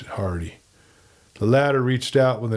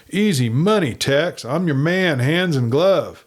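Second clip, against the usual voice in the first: eager, higher and louder agreement; downright enthusiasm; 6 semitones higher, 4 dB louder than usual. Acted. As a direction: jump at the deal with glee. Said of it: "changed to downright enthusiasm".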